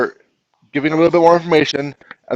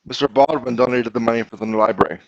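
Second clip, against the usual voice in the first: slower, listening for pauses; 2 semitones lower than usual. Shown as a demonstration. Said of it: "Let's read it a little slower and listen for the pauses".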